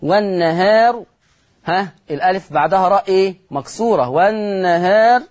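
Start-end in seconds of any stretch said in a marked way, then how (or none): 0.0-1.0 والنهار with the ā tilted slightly towards e; والنهار, long vowel between a and e before the r; taqlil. Shown as a demonstration. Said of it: "المقلل قولا واحدا". 4.1-5.2 والنهار with the ā tilted slightly towards e; والنهار, long vowel between a and e before the r; taqlil. Shown as a demonstration. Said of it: "مقللة قولا واحدا".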